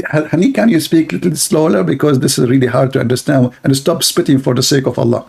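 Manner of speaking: wife annoyed by spitting; complaining wife. Acted. Wife asks him to slow down.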